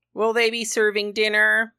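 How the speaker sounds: lightly voiced eager traveller; inquisitive customer. A narrator's reading. Imagined woman quizzing the clerk.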